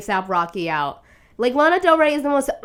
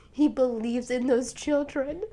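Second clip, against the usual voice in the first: softer, moved; quietly moved repeat; tender; 5 dB quieter than usual. Real, not acted. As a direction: say it softly, touched. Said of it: "I'm literally tearing up".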